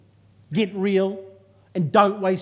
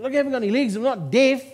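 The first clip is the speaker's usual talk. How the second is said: laughing retort; 5 semitones higher, faster than usual. Retold or imitated. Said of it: "I said".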